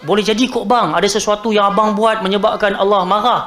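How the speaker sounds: empathetic. Shown as a demonstration. Khadijah consoling her husband with the right intonation, empathetic. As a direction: raise the possibility kindly, without blame. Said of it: "sebagai bentuk ihsan dan empati".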